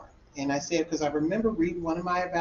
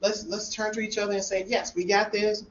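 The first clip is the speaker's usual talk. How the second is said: excited; 5 semitones higher than usual. Retold or imitated. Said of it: "I'm, like, excited".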